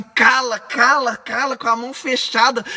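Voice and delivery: cala, cala, cala, snapped at a voice in your head; angry hush. Shown as a demonstration. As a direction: tell the voice to shut up through clenched anger. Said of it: "E você tá assim".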